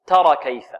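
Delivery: تر short, moving directly into كيف; ra straight into kaf. Shown as a demonstration. Teacher repeats the fix for pupils, short تر. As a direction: clip the final vowel of تر before كيف. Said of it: "الراء في الكاف مباشرة".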